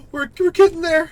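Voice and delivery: high, loud thrilled cry; excited shout. Real, not acted. Streamer to chat as the summit nears, excited high shout. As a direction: yell it as the peak comes into view.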